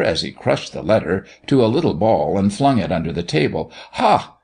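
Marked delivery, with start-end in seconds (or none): 3.9-4.3 sudden high-pitched burst; mock-angry cry. A narrator's reading. Doctor flinging the letter away, mock-indignant. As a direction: pop out a scornful exclamation. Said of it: "cried the doctor".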